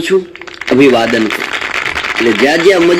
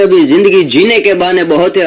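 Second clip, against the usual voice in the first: raised recitation; 3 semitones higher than usual. Shown as a demonstration.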